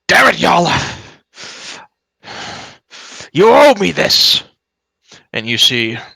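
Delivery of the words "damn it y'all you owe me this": loud, high, desperate yell; cries out. Acted. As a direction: shout it at the party as he's cornered. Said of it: "He cries out".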